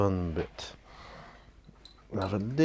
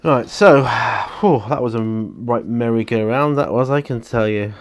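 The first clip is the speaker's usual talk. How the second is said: loud exasperated; 4 semitones higher, 10 dB louder than usual. Real, not acted. Exasperated outburst after hard work.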